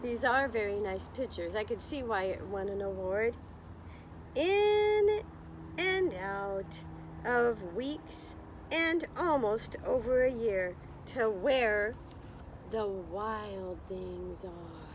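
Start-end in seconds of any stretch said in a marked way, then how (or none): 4.3-14.9 put-on slow, lilting read-aloud for children; story narration. A narrator's reading. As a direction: read it like storytime, drawing out the words. Reading picture book to class.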